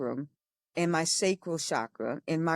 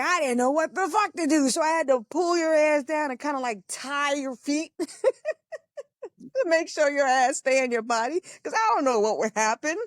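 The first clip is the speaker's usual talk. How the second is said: sister's voice; 8 semitones higher than usual. Retold or imitated. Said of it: "So she was like".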